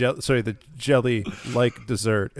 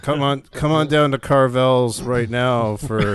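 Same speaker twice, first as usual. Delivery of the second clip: ad announcer; 5 dB louder than usual. Acted. Mock ad pitch.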